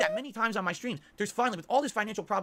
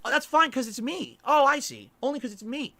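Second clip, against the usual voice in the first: bitter sarcasm; 5 semitones higher, 5 dB louder than usual. Real, not acted. Bitter sarcastic complaint, louder.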